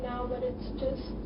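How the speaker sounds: fighting back a real sob mid-apology; crying. Real, not acted. Roommate apologizing to friends breaks into real tears.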